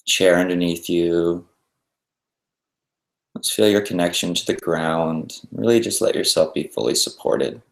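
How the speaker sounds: unhurried meditation guidance with long pauses; guided meditation. Acted. Teacher guiding listeners to settle and breathe, guided meditation. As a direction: ease them into stillness, leaving space between instructions.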